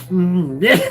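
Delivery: grunted mm and clipped-off yeah, dissolving into laughter; half-managed screen-cowboy impression; Clint Eastwood. Streamer redoing the moviegoer bit, mock Eastwood. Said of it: "You mean talking".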